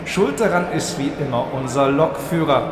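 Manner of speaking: lightly played station announcer voice; train station announcement. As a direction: read it like a platform announcement. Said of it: "Ich mache einmal ganz kurz so eine Bahnhofsdurchsage".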